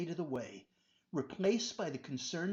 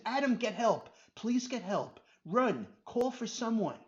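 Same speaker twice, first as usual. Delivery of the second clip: higher, loud frantic pleading; desperate scream; 5 semitones higher, 4 dB louder than usual. Acted. Robert trapped by the snakes, screaming for help. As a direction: beg for help in panic. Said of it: "Robert screamed".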